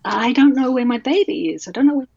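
a touch of helpless bewilderment; retold distress. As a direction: relive waking tearful and lost. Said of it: "I've heard you crying".

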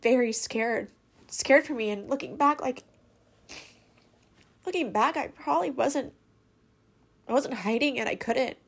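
upset, crying while confessing; real crying. Real, not acted. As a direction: push on through the tears. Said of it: "Sorry, I'm crying so much".

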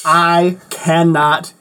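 put-on Valley Girl voice. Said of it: "this Valley Girl voice".

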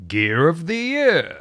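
high, drawn-out jingle-style announcement; local radio voice. Shown as a demonstration. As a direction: announce it like a local radio station, stretching the words. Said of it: "local radio stationy".

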